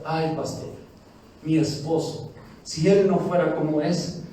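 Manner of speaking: whiny complaining wife. Retold or imitated. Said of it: "O la mujer".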